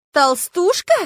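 high, loud offended question; indignant surprise. Acted. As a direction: repeat it, offended. Lyuba indignant at insult.

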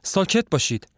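panicked, push him out before her husband comes; fear and agitation. A narrator's reading. The wife urging the visitor to flee, high frightened whisper-turned-plea. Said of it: "با ترس و هیجان میگه".

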